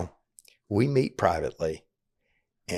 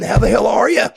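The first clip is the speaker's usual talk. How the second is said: retold hearty shout; 13 semitones higher, 7 dB louder than usual. Boss repeats greeting during hug.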